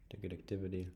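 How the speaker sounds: "Ticket activity" whispered under the breath; whispering. Real, not acted. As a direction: murmur "Ticket activity" to yourself. Repeats the phrase to self.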